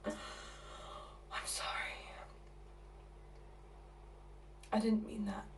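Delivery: hushed, near-whispered apology; soft, low and halting; subdued apology. Acted. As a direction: drop right down after the outburst. Subdued apology after the outburst.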